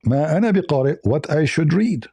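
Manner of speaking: ما أنا بقارئ read as "what I should read", not "I'm not a reader"; corrected reading. Shown as a demonstration. Host correcting a guest's Arabic translation, firmly. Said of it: "No, no".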